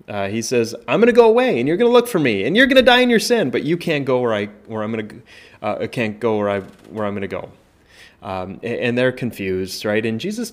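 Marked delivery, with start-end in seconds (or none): 0.9-7.5 loud, high, urgent warning to the crowd; raised pleading warning. Acted. Preacher voicing Jesus warning the crowd, loud and urgent.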